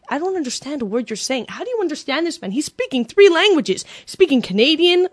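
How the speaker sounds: a touch of exasperated stranger; baffled Italian stranger. Retold or imitated. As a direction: lightly imitate a confused bystander protesting. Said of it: "a guy turns around".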